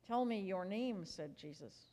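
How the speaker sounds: reading a Bible story to the congregation; lively storybook reading for a family service; story narration. A narrator's reading. Pastor reads a children's story Bible aloud, lively storytelling.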